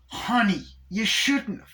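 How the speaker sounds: high, sugary fake thanks; mock sweet doll. Chucky fakes delight at Tiffany's meatballs in a high sugary voice.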